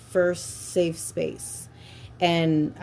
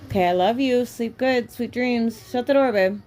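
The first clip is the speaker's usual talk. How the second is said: raised, high goodnight called across the house; calling out goodnight; 6 semitones higher, 4 dB louder than usual. Real, not acted. Mom calling goodnight to her kids down the hall, high and loud.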